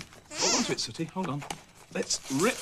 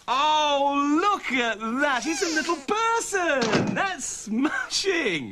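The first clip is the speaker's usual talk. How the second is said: drawn-out wonder, raised voice; delighted discovery; 4 semitones higher, much slower than usual. Acted. Presenter showing off what is inside the box, delighted. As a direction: marvel slowly at a lovely surprise.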